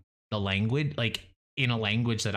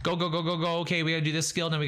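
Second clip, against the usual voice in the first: excited go go go, higher; rushing hype; 5 semitones higher than usual. Retold or imitated. Speeding through my Sims, excited chant. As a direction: hype yourself through the game. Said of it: "that's how I play".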